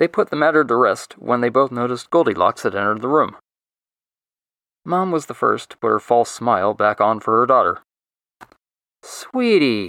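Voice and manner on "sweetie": soft cooed words. Reading a story, the mother greets her returning daughter, cooing. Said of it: "she cooed".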